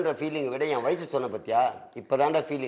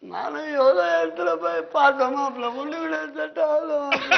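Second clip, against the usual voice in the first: hammed-up whiny near-sobbing, pitched higher; mock crying; 9 semitones higher than usual. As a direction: wail it like a comic crybaby. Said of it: "நீ அழக்கூடாது டேய்". (கேலியான அழுகைக் குரல்)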